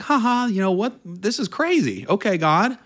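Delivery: giddy amazed laughter at fate; laughing in disbelief. Retold or imitated. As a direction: laugh it off to God. Both laughing at the coincidence.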